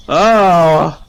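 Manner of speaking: usual speaking voice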